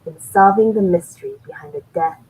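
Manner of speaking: lightly voiced trailer announcer; trailer guy voice. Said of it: "You gotta do the voice".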